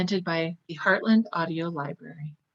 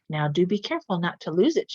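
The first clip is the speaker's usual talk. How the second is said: teasing; faster than usual. Acted. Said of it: "she teased".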